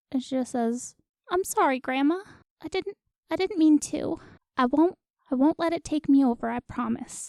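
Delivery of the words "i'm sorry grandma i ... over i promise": tearful character voice, crying a little. Voicing a character who apologizes to her grandma, holding a necklace: crying a little. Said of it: "she's just kinda crying a little bit".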